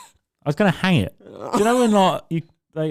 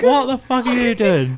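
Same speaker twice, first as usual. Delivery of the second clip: wife yelling; 8 semitones higher, 4 dB louder than usual. Retold or imitated. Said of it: "She's upstairs like".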